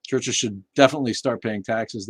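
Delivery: ordinary delivery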